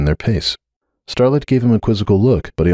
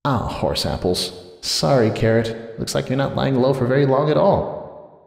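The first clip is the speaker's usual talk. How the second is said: soft, slow rueful mumble; muttered aside; 5 semitones higher, 5 dB quieter than usual. A narrator's reading. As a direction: grumble it quietly to the little one.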